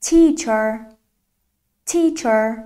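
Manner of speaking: Teacher with a drawn-out "ee"; Teacher said singly, long "ee" first syllable; long vowel. Shown as a demonstration.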